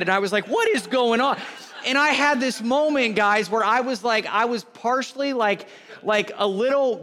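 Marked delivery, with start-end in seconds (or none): 0.5-1.4 incredulous, louder and higher; mock bewilderment. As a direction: retell it as baffled disbelief. Retold baffled reaction at game.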